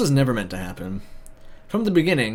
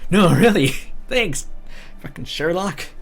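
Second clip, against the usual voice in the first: 1 loud sarcasm; 6 semitones higher, 4 dB louder, slower than usual. Acted. Sarcastic outburst at camp leader.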